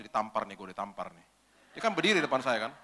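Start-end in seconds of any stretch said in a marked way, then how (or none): 0.0-1.3 inner voice. Retold or imitated. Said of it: "Saya dalam hati gini".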